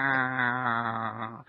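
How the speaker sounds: a mock deflating ah; deflating groan. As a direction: let out a collapsing sigh. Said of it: "like that".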